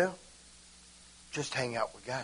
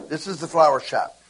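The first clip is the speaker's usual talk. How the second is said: flowery; 3 dB louder than usual. Shown as a demonstration. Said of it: "See how it's all flowery?".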